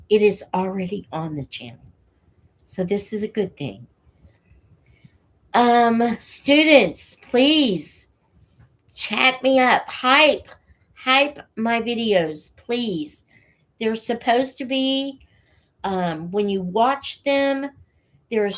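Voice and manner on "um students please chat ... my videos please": higher, louder eager plea to students; rally the students with a bright plea; excited call-out. Real, not acted. Calls students to hype videos.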